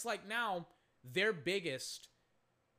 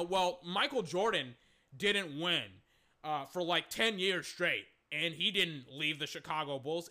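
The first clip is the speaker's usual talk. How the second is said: mocking Charles Barkley; 4 dB louder than usual. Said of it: "he's like, you know".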